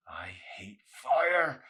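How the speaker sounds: slow, breathy whisper. Acted. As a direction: barely breathe the words out, very slowly. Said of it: "Arson whispered under the current".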